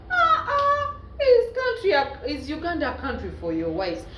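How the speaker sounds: high, loud mock crying; hammed-up crying over the question; mock wail. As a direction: wail it like a fake sob. Mock wail about Uganda.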